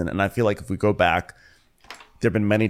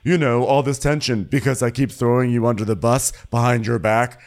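high, loud hammed-up grievance; Marlo; 6 semitones higher, 5 dB louder than usual. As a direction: wail the complaint in mock self-pity. Mimics Marlo's aggrieved outburst.

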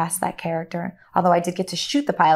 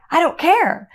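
high, loud, elated outburst; gleeful inner voice; 6 semitones higher, 6 dB louder than usual. Retold or imitated. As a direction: replay your giddy relief, pitched up and punchy. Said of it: "inside, I'm so happy".

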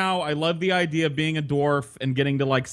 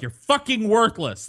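higher, slow mock scolding; scornful girlfriend; 7 semitones higher, slower than usual. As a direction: imitate an exasperated girlfriend berating him. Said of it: "she was like".

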